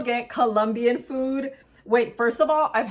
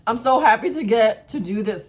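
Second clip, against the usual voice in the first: mouth full. Real, not acted. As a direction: still chewing while talking. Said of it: "talking with my mouth full".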